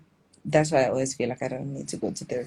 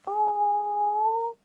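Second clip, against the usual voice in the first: mock surprise. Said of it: "I'm like".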